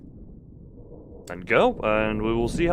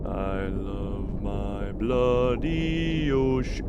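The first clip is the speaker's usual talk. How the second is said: slow, dry sarcastic drawl; much slower than usual. Real, not acted. Player mocking the leaking sub, slow and sarcastic. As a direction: say it slowly, meaning the opposite.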